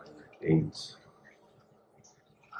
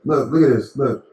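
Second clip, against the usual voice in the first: excited; 6 semitones higher, 6 dB louder than usual. Real, not acted. Showing off hair growth.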